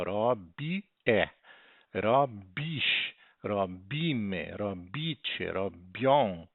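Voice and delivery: teacher's demo, leaning on each ending after "robi"; stem and endings separated. Shown as a demonstration. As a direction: set the endings apart after the stem "robi" in "robi é, Robisz, robimy, robicie, robią". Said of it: "é a matriz". ("robi é, Robisz, robimy, robicie, robią" com as terminações destacadas)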